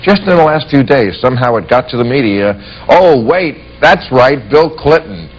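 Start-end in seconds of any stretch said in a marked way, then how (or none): 2.9-5.3 mock "oh, of course", pitched a little up; sarcastic pretend recollection; mock sudden realization. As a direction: lightly mimic the media suddenly remembering. Mimics media suddenly blaming Clinton.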